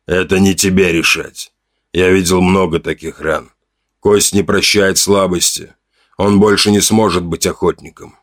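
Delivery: put-on grave old chief laying down the law; a hint of a weary tribal elder; Gorm the chief. Chief Gorm's voice.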